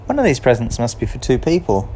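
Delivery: a hint of a puzzled cat counting presents; Kat puzzling. A narrator's reading. Kat to her friends, lightly voiced and puzzled. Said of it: "And Kat thought".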